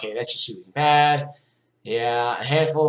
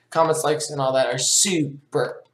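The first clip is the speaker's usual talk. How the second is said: put-on Russian accent; slower than usual. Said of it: "sorry, I talk in the Russian accent".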